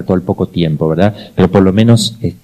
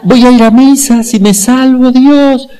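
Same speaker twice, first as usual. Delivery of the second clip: high, loud cry to God from the flames; shouting to God; 14 semitones higher, 7 dB louder, slower than usual. Retold or imitated. Man trapped in the burning factory cries out to God, loud and high. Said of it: "Y gritó".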